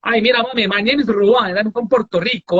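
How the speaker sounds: put-on English with a light Puerto Rican accent; a hint of Puerto Rican flair. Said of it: "O porto-riquenho fala inglês falando assim". (inglês com leve sotaque porto-riquenho)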